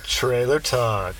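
slow, drawn-out segment title; segment announcer. Pretend. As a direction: stretch it out like a show title.

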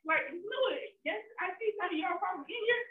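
high, loud, upset explaining; tearful protest. Real, not acted. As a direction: keep protesting through tears. Still upset, qualifying her protest.

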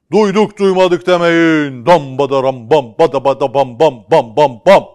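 high, loud crier proclamation; town crier. Acted. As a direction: proclaim it like a herald. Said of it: "tellal devam ediyor".

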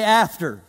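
AFTER said firm and falling for the crowd to echo; preacher leading a call and response; call to repeat. Shown as a demonstration. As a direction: hand them "After" to say back. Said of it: "Everybody say".

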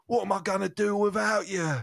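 mock lament, moderately paced; hammed-up mournful line. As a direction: play the grieving widower lightly. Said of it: "tragic scene".

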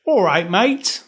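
put-on Irish greeting; joky try at an Irish accent; attempted Irish accent. Shown as a demonstration. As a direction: show off a rough Irish accent. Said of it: "Here's my Irish".

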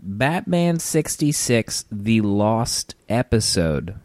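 slow dramatic title read; announcer voice. Acted. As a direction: announce it like a trailer.

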